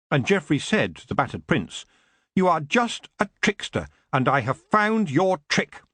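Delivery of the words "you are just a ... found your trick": mild shout. Acted. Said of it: "he shouted".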